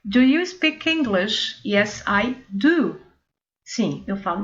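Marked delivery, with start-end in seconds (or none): 0.0-3.0 slow model dialogue. Shown as a demonstration. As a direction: Do you speak English, Yes I do, said slowly. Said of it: "evitar a repetição". (diálogo modelo devagar)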